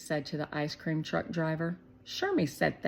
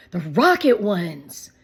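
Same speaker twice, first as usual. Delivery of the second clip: put-on excited little boy; 11 dB louder than usual. A narrator's reading. Shake telling Shermie about the ice cream money, excited. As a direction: rush it out, thrilled.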